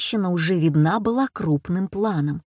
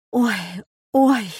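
breathless, high, louder gasp of shock; 4 semitones higher, 3 dB louder than usual. A narrator's reading. Josephine gasps at the TV screen, breathless shock. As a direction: catch your breath in surprise. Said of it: "задохнулась Жозефина".

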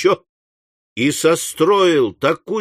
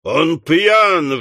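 mildly raised angry accusation; understated enraged outburst; furious roar; 3 semitones higher than usual. Acted. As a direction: roar it, but held back. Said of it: "в бешенстве заревел старый Уордль".

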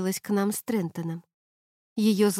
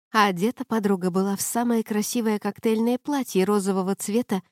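ordinary delivery

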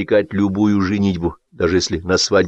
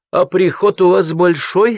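matter-of-fact; 10 semitones higher, slower than usual. A narrator's reading. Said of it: "как ни в чём не бывало".

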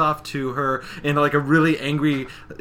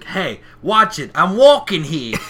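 loud, slow, higher-pitched warning; mock bully snarl; 6 semitones higher, 10 dB louder, slower than usual. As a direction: play an offended bully throwing weight around. Bully bumped into, acted out.

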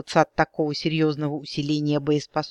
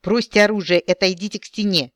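shrill squealing; 6 semitones higher, 4 dB louder than usual. A narrator's reading. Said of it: "верещал Березаец".

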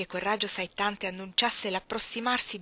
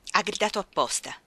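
louder, scornful accusation; the maid accusing the child of faking; indignant; 4 dB louder than usual. Acted. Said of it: "dichiarò Abbott indignata". (Abbott indignata accusa la bambina)

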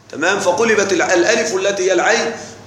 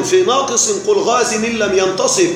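verse recitation. Shown as a demonstration. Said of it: "قال الناظم".

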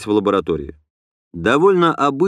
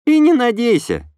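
higher female voice with a smirk; smirking young woman; 12 semitones higher than usual. A narrator's reading. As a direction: tease him as Inna. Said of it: "усмехнулась Инна".

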